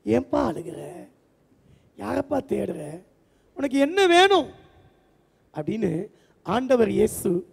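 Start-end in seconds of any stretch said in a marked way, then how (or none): 0.1-4.5 gentle tender question. Acted. Jesus gently asks Mary. (மென்மையான அன்பான கேள்வி)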